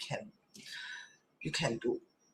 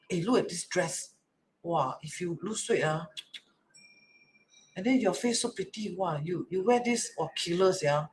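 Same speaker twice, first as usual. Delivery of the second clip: softer, encouraging compliment; kindly; 6 dB quieter than usual. Shown as a demonstration. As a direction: gently coax with a kind compliment. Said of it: "kindly one".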